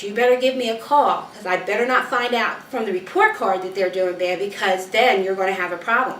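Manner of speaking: mildly stern parent laying down the law; stern warning. Retold or imitated. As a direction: warn the teachers with lively, emphatic firmness. Acted warning to the teachers.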